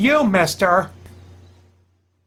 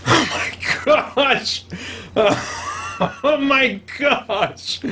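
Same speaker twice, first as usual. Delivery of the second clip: laughing; 5 semitones higher, much slower than usual. Real, not acted. Laughing after a scare.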